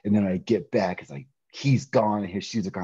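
ordinary talk

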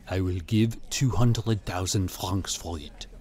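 slow, low, quiet offer; gallery owner. A narrator's reading. Gallery owner bidding for the picture, slow and low. Dealer makes his offer.

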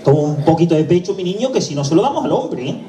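lightly acted mother, pitch swooping up late; insistent coaxing mother. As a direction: press the baby harder, with swooping sing-song rises. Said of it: "La mujer ya hace un poco más de fuerza".

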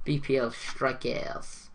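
playful fake French accent on a slow phrase; lightly hammed-up French accent; mock French accent. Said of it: "my beautiful French accent".

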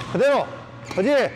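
ordinary talk

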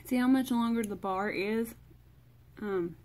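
talking with a fresh tongue piercing; tongue piercing, words a bit thick. Real, not acted. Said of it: "it's weird to talk".

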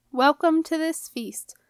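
high, slow, screeching royal welcome; grating queen. A narrator's reading. Queen grating a welcome to her guests. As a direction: scrape it out like nails on a blackboard. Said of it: "voice rang back ... down a blackboard".

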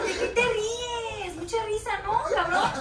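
slow, shouted, half-laughing tears; wife furious at the prank, laughing and crying; angry crying laugh. Real, not acted. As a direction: yell at him through tears and laughter. Realizing it is a prank.

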